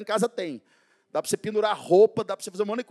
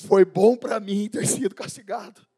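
reading the psalm; 5 dB louder than usual. Acted. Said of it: "o salmista diz".

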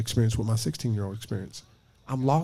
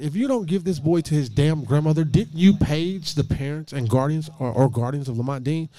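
angry sister; 3 semitones higher, 4 dB louder than usual. Retold or imitated. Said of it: "She's like".

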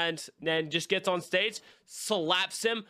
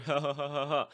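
imitated laughter; 4 semitones lower than usual. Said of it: "you hear his laughter".

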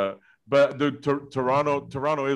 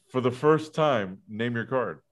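Houdini magician patter; slower than usual. Acted. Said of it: "you gotta act like Houdini".

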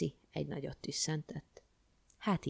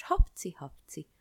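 mock sneezes; 6 dB louder, slower than usual. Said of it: "alig hallatszott a tüsszögése".

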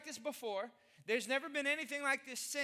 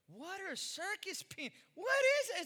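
mock outrage; 6 semitones higher than usual. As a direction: exclaim in disbelief. Mock horror at candy.

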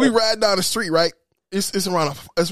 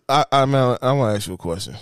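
dropping into a very deep voice; low-voice demonstration; 6 semitones lower than usual. Retold or imitated. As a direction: imitate a man talking way down low. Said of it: "It was just like this".

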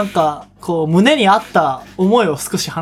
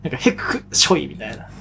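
imitated sneeze; 4 semitones lower, 4 dB quieter than usual.

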